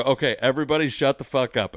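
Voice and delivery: mock-fed-up order; retold crowd scolding. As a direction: shout down the crowd in a retelling.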